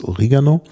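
"Oregano" with an i in the second syllable; Latinised pronunciation. Shown as a demonstration. Host traces the Greek word into Latin, "Oregano" said o-RI-ga-no. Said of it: "dann latinisiert worden".

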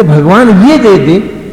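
hammed-up grasping plea; mock greedy prayer. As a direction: mimic a greedy demon pleading with God. Mocking greedy demonic prayer.

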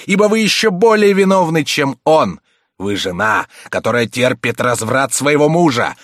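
damn her and storm off; trembling with rage. A narrator's reading. Enraged abbé condemning the countess, furious outburst. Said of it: "Весь дрожа от гнева".

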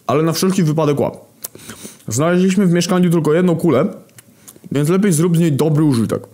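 high, projected call. Acted. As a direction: shout instructions through a portal. Hunger calls through the portal.

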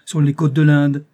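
put-on a young man's thrilled exclamation; excited exclaim. A narrator's reading. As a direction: announce it with rising excitement. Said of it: "m'écriai-je".

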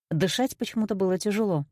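plain reading voice

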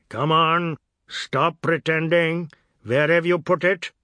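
put-on loud, high, harsh demand from a drunk uncle; angry accusation. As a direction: bark it at the boy, furious. Bandat angry at Biswas.

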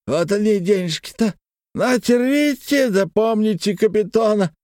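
high blustering proclamation; high boastful drunk merchant voice; proclaiming. A narrator's reading. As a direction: announce it grandly. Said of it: "провозгласил".

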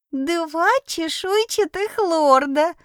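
high, slow giggly kitten squeal; giggling kitten voice. A narrator's reading. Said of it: "захихикал сверху чудик".

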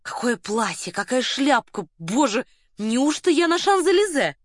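gushing admiration that leaps high and loud; crying out rapturously. A narrator's reading. Colonel flattering Varya on her dress and hat, gushing loudly. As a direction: swell into a theatrical, high-pitched outcry. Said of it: "возопил Лукан".

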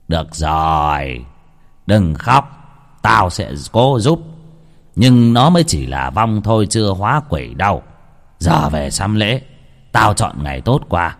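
a stern healer softening a little; old shaman. Acted. Shaman consoles and instructs.

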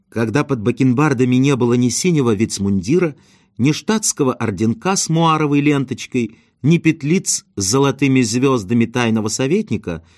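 ordinary delivery, nothing marked

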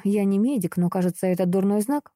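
ordinary delivery, nothing marked

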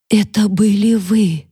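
high, slow and shaky-edged accusation; a frightened girl quavering; trembling voice. A narrator's reading. Catherine, frightened, accuses Mary with a trembling voice. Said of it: "сказала Кэтрин дрожащим голосом".

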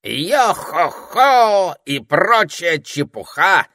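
high, loud, slow jolly sing-song; cheerful. A narrator's reading. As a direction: belt it like a merry pirate. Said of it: "весело проговорил попугай".

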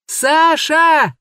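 high drawn-out call of a name. A narrator's reading. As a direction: call her name into the dark. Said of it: "снова окликнул".

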